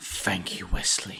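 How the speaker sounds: breathy, whispered crime-boss voice. Doing a Kingpin impression after a Daredevil mention: Kingpin impression. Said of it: "That's my Kingpin impression".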